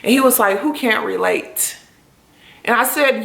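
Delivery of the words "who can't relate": calm question. Retold or imitated. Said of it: "he sat there very calmly".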